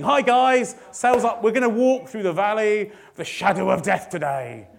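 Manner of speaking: lightly voiced upbeat sales boss; a hint of a pep talk to the team; mock sales pep talk. Sales director rallying the sales team, mock pep talk. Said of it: "as a sales team thing".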